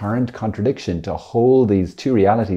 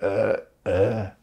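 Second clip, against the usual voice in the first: confused brain; 4 dB quieter than usual. Retold or imitated. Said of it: "our brain kind of goes".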